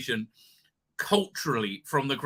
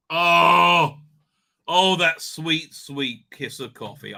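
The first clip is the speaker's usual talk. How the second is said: savouring coffee; 5 dB louder, slower than usual. Real, not acted.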